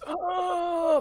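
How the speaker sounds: put-on a high creaky old man "Ah"; high old geezer cry. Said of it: "my old man voice".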